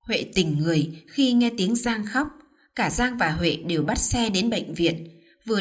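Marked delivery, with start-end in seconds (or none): none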